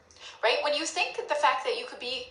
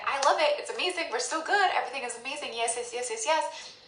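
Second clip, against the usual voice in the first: mock gushing; 3 semitones higher than usual. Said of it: "you're like".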